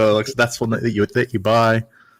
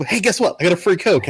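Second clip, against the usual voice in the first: higher-pitched, mildly excited re-enactment; eager, raised-pitch quoted announcement; excited discovery; 7 semitones higher than usual. Retold or imitated. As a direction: act out happily announcing a small win. Acts out finding winning cap.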